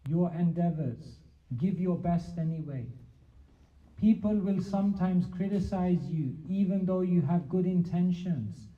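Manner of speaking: reciting a poem. Retold or imitated. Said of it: "she had a poem".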